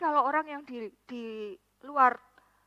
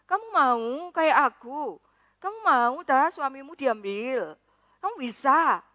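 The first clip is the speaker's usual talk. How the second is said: slow, louder, pointed questions; slow challenge; 7 dB louder, slower than usual. Retold or imitated. Preacher challenging his envious friend, slow and loud. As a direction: drive each question home slowly.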